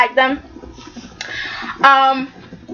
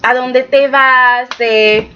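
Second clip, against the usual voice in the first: Spanish phrase; 2 semitones lower than usual. Shown as a demonstration. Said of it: "Something like".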